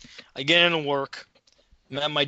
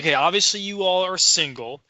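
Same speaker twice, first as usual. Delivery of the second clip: ranting tirade; 2 semitones higher than usual. Retold or imitated. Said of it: "I just went fucking off".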